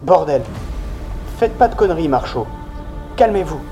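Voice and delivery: ordre tendu, voix haute; le lieutenant somme Marchaud de se calmer; ordre pressant. Acted. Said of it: "lui intima Ramirez". (injonction tendue et aiguë)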